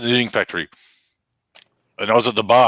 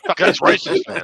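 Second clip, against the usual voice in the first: mock outraged yelp. Real, not acted. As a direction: voice shoots way up in fake shock. Laughing accusation at joke.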